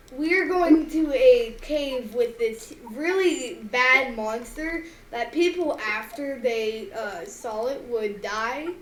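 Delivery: lightly voiced squeaky beetle, drawn out slowly; a hint of squeak, slow swooping delivery. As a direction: slowly play a mildly squeaky little bug. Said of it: "in a very squeaky voice because I'm a beetle".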